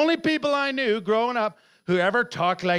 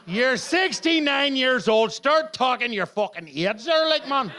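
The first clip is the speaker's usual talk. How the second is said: Northern Irish grandparent; 3 semitones higher than usual. Retold or imitated. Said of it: "in tribute to Alfie and Gertie, my grandparents".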